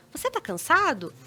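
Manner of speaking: calm, gentle sincere question; understanding, reassuring question; conciliatory tone. Shown as a demonstration. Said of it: "nesse tom mais conciliatório".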